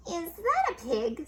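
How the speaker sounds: a hint of a shocked neighbour; surprised neighbour. Neighbour voiced in story.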